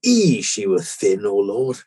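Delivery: slow, broad Yorkshire reading; a touch of Yorkshire. Retold or imitated. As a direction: read the stone slowly in light Yorkshire. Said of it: "proudly at the end".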